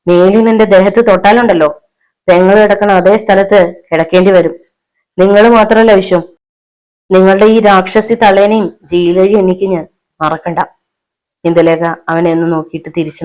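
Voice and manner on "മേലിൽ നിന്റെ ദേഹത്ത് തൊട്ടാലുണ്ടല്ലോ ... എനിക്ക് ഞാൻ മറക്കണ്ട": indignant, rising warning; angry threat. Acted. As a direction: threaten him with some heat. Wife threatens husband and mother-in-law.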